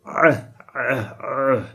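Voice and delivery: ah squeezed from the throat; tense the throat on each ah; tensioned ah. Shown as a demonstration. Teacher demonstrating the tense ain sound. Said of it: "put some tension over here".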